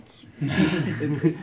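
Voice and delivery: laughing through the words; giggling while joking. Real, not acted. Joking about detecting technology.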